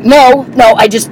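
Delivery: imitating a flustered man explaining himself; halting, mildly startled excuse; retold startled backpedal. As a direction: stumble through a hasty justification, lightly acted. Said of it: "The guy looked super startled".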